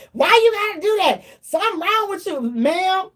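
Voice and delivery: put-on a mom scolding her grown child; mother's scolding voice. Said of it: "She like".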